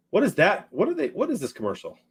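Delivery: quick, puzzled, off to the side; puzzled question. Real, not acted. Puzzled by the commercial playing on screen, quick. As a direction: wonder aloud what's on screen.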